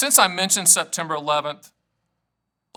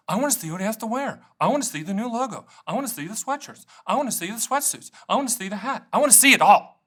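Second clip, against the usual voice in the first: higher-pitched, rapid-fire fan demands; mock eager fans; 4 semitones higher than usual. Stan mimics viewers begging to see his outfit, mock eager.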